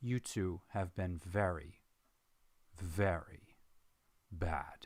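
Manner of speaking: low, growling, menacing voice. Narrating the voice the companions hear in their heads: Priscilla's growling voice. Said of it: "there is a growl and vibration to her voice".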